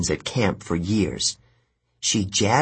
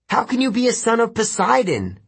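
high, disbelieving challenge; incredulous; 13 semitones higher than usual. A narrator's reading. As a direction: demand it in disbelief. Percy challenging giant.

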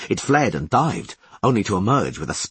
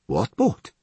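calm. Acted. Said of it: "asked Adario Bach calmly".

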